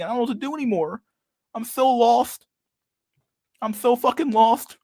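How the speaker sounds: Jordan Peterson impression. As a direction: parody a grave self-help lecturer rambling. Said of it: "He's like".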